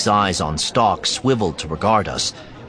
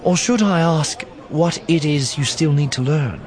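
Nakari; 8 semitones higher than usual. A narrator's reading. Narrator voices Nakari.

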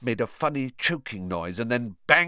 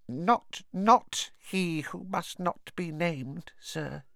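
slow, hesitant elf voice; hinting house-elf; 9 semitones higher, 3 dB quieter, slower than usual. A narrator's reading. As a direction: stress the not as a hint. Dobby's voice.

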